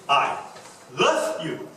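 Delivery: "love" punched after a pause; stress on love. Shown as a demonstration. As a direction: lean hard on "love". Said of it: "Or you can say".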